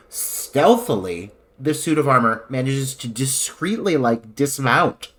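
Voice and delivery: drawn out, sneaky and slow; slow stealthy. Retold or imitated. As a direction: creep the words out slowly. Describing sneaky dismount.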